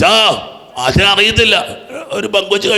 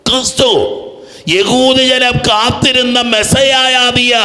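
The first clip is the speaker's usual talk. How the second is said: high, drawn-out preacher's declaration; high, stretched-out confession of faith; fervent proclamation; 6 semitones higher, slower than usual. Acted. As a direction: proclaim it slowly with rising fervour. Proclaiming Peter's confession at force.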